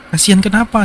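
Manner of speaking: a mum gently asking why; mother asking. Retold or imitated. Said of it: "ditanya sama mamanya".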